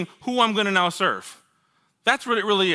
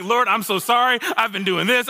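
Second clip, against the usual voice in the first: frantic apology; 5 semitones higher than usual. Retold or imitated. Retold frantic confession on his knees.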